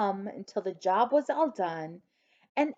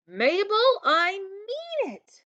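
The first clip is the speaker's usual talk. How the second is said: stern mother; 12 semitones higher, 5 dB louder, slower than usual. A narrator's reading.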